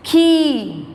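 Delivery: खी with the ee held long; long, intense vowel. Shown as a demonstration. Teacher showing the long vowel sign, खी held strongly. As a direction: hold and push the ee in खी. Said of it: "ध्वनि तीव्र निकलती है".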